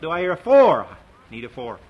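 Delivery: lightly voiced auctioneer calling for bids; a hint of an auctioneer chanting; auctioneer patter. A narrator's reading. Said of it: "his auctioneer's talk".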